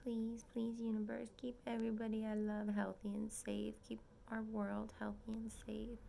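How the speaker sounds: soft whispered prayer. Real, not acted. Praying to the universe in a soft whisper.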